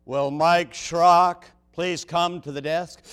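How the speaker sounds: slow, flat airport intercom call; flat echoey pa page. Retold or imitated. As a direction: read it like a gate announcement. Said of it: "over the intercom, I'll hear".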